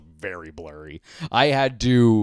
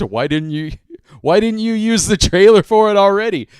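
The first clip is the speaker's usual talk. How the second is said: mock exasperated request that climbs higher and louder at the end; exasperated plea; 5 semitones higher, 7 dB louder than usual. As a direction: playfully nag the editor, building to a loud high burst. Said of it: "send Smarty that message and be like".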